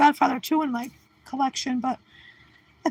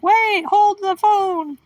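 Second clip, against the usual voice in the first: slow, higher, drawn-out stop; mock double take; 5 semitones higher, 3 dB louder, much slower than usual. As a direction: pull up short in mock disbelief. Stopping herself in mock surprise.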